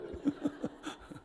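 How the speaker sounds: breathy chuckle; soft laugh. Real, not acted. Preacher laughing at the choir, a soft chuckle. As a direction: laugh it off quietly.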